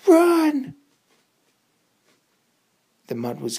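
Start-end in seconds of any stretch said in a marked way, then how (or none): 0.1-0.7 high, loud yell to the horse. Acted. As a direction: scream at him to run. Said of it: "Lumpy yelled".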